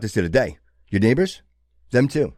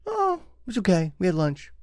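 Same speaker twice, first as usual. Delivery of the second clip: put-on kid answering; 8 semitones higher, 6 dB quieter than usual. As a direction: play the bored kid who shrugs off the question. Parent asks kid about school.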